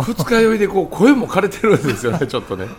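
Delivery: hungover, hoarse voice. Real, not acted. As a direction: speak through a hoarse hangover voice.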